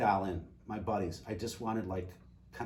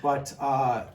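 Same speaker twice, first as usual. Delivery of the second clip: laughing; 5 semitones higher, 12 dB louder, slower than usual. Real, not acted. Laughs over made-up detective name.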